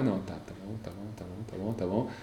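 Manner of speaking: whispered "tá bom" to steady himself; very soft nervous self-talk; hushed self-reassurance. Retold or imitated. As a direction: murmur it to calm your nerves. Calming himself before the speech.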